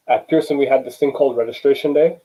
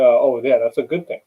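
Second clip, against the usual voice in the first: mock kid voice. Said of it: "even a kid could say".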